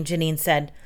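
ordinary delivery

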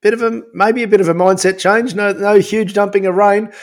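talking around a mouthguard; words muffled by a mouthguard; wearing a mouthguard. Real, not acted. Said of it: "The mouth guard is in".

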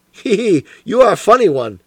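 a mild, lightly voiced chuckle through the words; amused inspector teasing Holmes, half laughing; chuckling. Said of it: "chuckled the inspector".

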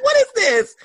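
high, laughing yelp; laughing disbelief. Retold or imitated. Swooning over Odell, high laughing squeal. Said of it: "I'm like".

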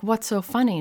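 high-pitched, put-out question; puzzled indignation. Retold or imitated. Daughter asking her laughing mom, indignant. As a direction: act out not getting the joke.

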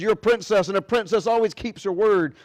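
a king putting his foot down; stern father repeating the rule to his daughter; firm fatherly insistence. Acted.

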